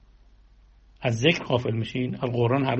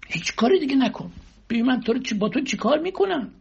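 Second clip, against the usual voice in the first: God's words, pitched much higher and pleading; voicing God; 9 semitones higher than usual. Preacher voicing God to the listeners, lifted high. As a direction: speak as God calling his servant close. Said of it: "خدا میگه، خدا میگه".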